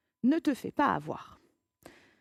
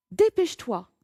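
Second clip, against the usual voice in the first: urgent command; 8 dB louder than usual. Acted. Urging someone to hurry.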